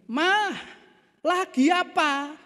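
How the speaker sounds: high, drawn-out call to his wife. Acted. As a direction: call slowly so she surely hears. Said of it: "lalu ngomong dengan lebih keras". (memanggil istri dengan suara tinggi)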